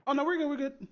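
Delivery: words through a toothbrush; while brushing teeth. Real, not acted. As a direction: talk around a toothbrush. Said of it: "I'm just brushing my teeth".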